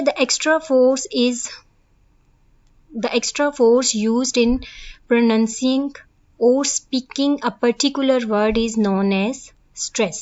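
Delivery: reading the definition word by word, slowly; slow dictation. Acted. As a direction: dictate it slowly so students can copy. (धीमे-धीमे लिखवाते हुए पढ़ना)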